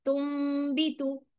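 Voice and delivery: तुम भी with a light nasal hum, lips not fully shut; slow, say तुम भी through the nose without closing the lips; तुम भी with ghunna, loosely closed lips; nasal recitation. Shown as a demonstration. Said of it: "मैंने पूरे होंठों को बंद नहीं किया".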